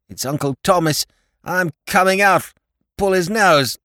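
high and muffled, as if behind a curtain. A narrator's reading. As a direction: call out through heavy cloth. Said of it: "the muffled voice of his lordship".

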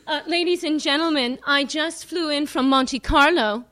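put-on loud old-school comic, working the room; brash nightclub comic with a mic; old borscht belt comic. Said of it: "You wanna hear a singer do stand-up comedy?".

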